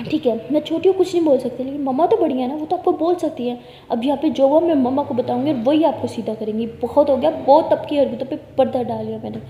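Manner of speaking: loud, furious threat to tell mom; angry threat. Acted. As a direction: threaten her sister, boiling over. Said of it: "तो परी बहुत गुस्से में होती है". (गुस्से में ज़ोर से धमकी)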